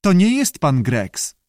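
high squawky creature; screechy voice. A narrator's reading. Unseen salamander talks to the director, screechy. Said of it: "powiedział skrzykliwy głos".

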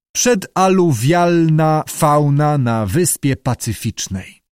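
slow, solemn scholarly announcement; scientific title. A narrator's reading. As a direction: pronounce it slowly like a learned title. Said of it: "powinien brzmieć naukowo".

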